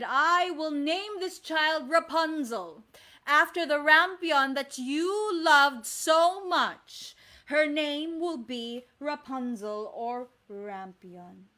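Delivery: loud, slow decree from the enchantress; commanding enchantress. Acted. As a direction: announce the name grandly, drawn out. Enchantress names the child.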